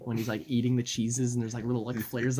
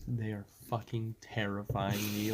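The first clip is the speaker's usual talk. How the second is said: softer, understated mock dread; scared friend; 2 semitones lower, 5 dB quieter than usual. Imitating friend showing his painted walls, quiet understated fear. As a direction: imitate a spooked friend with hushed emphasis. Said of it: "he was so scared".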